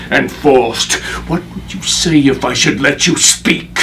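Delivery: bitter accusation, swelling in volume; rising stage anger. Acted. Avenging father accuses his daughter's attackers, rising anger. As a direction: grief pushing up into anger.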